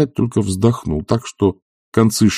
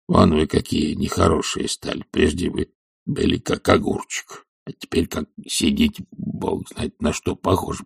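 put-on meek old servant; 2 semitones lower, 3 dB quieter than usual. Zakhar asking his master timidly, hushed. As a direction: ask humbly, almost under the breath.

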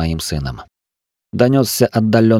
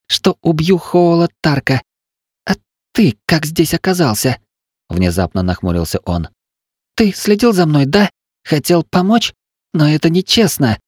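put-on higher boyish voice, apologetic then startled; young son; 7 semitones higher than usual. The injured son apologises to his father, higher boyish voice. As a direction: play the hurt boy. Son's voice.

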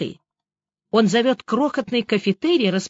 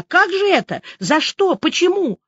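high, distressed string of questions; frantic wail; 10 semitones higher, 4 dB louder than usual. A narrator's reading. Woman demanding why her friend was arrested, frantic wail. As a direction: cry out each question, pitched way up. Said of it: "завопила я".

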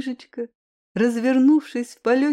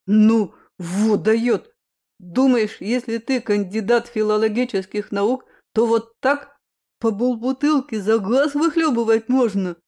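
put-on loud drunk; 5 dB louder than usual. Drunk mocks his friend's gulp.

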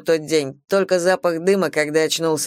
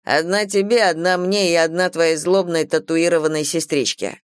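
teasing, lightly voiced young man; cocky young man. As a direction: play a cocky bad boy. Tyler's lines voiced.

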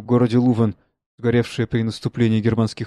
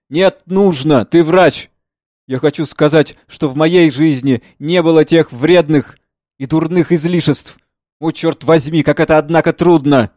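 lightly voiced flustered father; 4 semitones higher, 7 dB louder than usual. Father struggles to confess.

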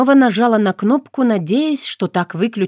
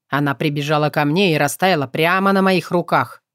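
put-on lower, composed young man; steady and patient, a touch lower; calm young man; 4 semitones lower than usual.

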